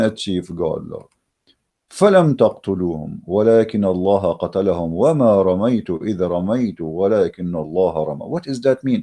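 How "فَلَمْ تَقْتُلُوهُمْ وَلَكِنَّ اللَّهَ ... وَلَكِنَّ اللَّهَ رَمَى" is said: Quran recitation. Acted. Recites Quran verse in Arabic.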